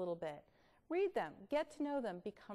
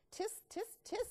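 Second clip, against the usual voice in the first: doctor tutting; 10 semitones higher than usual. Acted. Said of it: "said the bug doctor".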